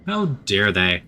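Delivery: a touch of sarcastic indignation; half-joking how dare they; mock outrage. Player mocking the lab staff, sarcastic outrage. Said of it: "mock outrage repeated".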